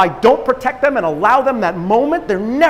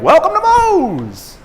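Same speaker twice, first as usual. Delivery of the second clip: scripted greeting; 8 semitones higher, 4 dB louder, slower than usual. Retold or imitated. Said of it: "pre-programming".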